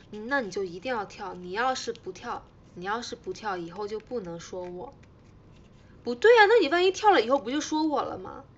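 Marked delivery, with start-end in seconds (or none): 6.0-8.4 loud, higher-pitched protest; indignant objection. Real, not acted. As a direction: jump in with a sudden loud objection. Objects to a bet's terms.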